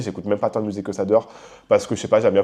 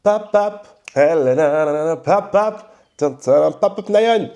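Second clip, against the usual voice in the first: high popping mouth noises; imitated ear pop; 4 semitones higher, much slower than usual. Host imitating the pop of his blocked ear, high. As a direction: mimic the ear going pop, high and playful.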